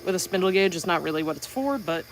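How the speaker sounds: muffled voice behind a visor; behind face shield. Real, not acted. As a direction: speak through a face shield. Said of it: "sorry, I'm talking into the face shield".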